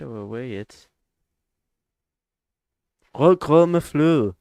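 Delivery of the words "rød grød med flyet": "Rød grød med flyet" said as a Danish tongue twister, high and loud; Danish phrase. Shown as a demonstration. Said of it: "That's a thing you say in Denmark".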